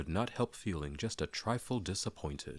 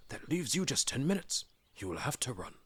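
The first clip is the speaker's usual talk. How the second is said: much higher, urgent hurry-up; Gandalf urging; 8 semitones higher than usual. Acted. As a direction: shoo him out the door. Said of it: "said Gandalf".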